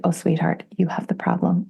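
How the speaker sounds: hushed, breath-heavy pitying voice; gently condescending. Retold or imitated. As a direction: break it to them like a knowing counsellor. Counsellor gently puts her straight.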